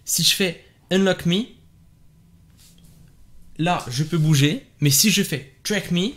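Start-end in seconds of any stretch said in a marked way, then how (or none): 0.9-1.5 English command with French vowels; unpolished French accent on an English command; rough French-accented English. Shown as a demonstration. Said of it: "même avec un accent claqué". 5.6-6.1 English voice command, French accent; short command with an unpolished French accent; rough French-accented English. Shown as a demonstration. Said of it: "même avec un accent claqué".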